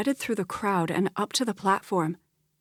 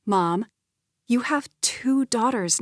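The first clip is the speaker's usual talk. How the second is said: enthusiastic; 4 semitones higher than usual. Acted. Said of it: "Her voice gathered enthusiasm".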